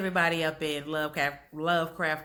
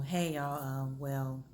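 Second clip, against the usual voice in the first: Letty; 3 semitones lower, 5 dB quieter than usual. Retold or imitated. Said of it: "she's just kinda like".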